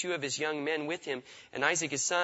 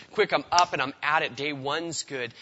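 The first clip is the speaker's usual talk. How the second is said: eager start; 6 dB louder than usual. Retold or imitated. Eager first day voiced.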